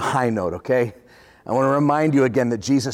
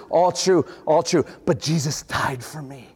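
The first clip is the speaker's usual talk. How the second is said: calm reply. Retold or imitated. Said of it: "your response is".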